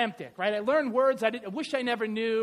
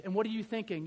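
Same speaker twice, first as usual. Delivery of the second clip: ordinary talk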